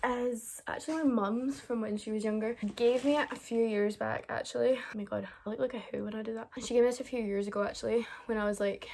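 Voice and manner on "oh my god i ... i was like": out of breath; panting after running around; breathless whisper. Real, not acted. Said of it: "really out of breath".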